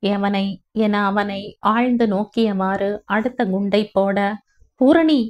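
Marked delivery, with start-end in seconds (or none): 4.8-5.2 shocked, high and loud outburst of her name; husband stunned by his wife's question, crying out; startled cry. A narrator's reading. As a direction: jolt as if struck. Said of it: "என அவன் அதிர".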